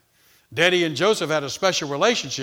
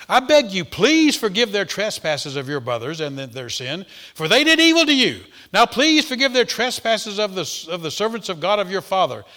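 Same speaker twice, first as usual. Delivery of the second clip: high, loud, emphatic plea; urgent pleading; 4 semitones higher, 6 dB louder than usual. Acted. Brothers begging Joseph to forgive their trespasses, urgent pleading. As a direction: beg forgiveness with forceful stress.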